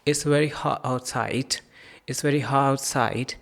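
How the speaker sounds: hot said as ha with the t dropped; teacher shows the dropped t; dropped final t. Shown as a demonstration. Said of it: "हॉट से हा".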